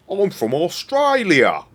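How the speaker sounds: a hammed-up Simpsons-style Australian cry; mock Australian. Quoting a Simpsons joke in a loud mock Australian accent. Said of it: "that was a Simpsons joke as well".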